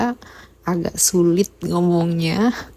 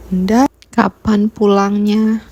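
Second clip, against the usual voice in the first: imitated child's call, louder and drawn out; calling out for mother; 5 dB louder, slower than usual. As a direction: call for Mom, slow and slightly loud. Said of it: "Dia tuh selalu manggil". (memanggil Bunda, meniru rengekan anak)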